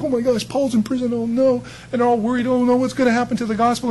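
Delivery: high-pitched imitation of a worried church; lightly mocking alarmed chatter; mock panic. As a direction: play the flustered believers, hammed-up. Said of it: "because remember they had panicked".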